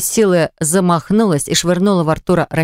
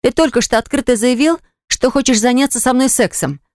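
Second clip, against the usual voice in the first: indignant; 7 semitones higher than usual. A narrator's reading. Eva indignantly accusing Artur.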